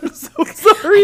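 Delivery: high, loud, drawn-out wail through laughter; laughing mock apology. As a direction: cry it out while cracking up. Retells apology, cracking up.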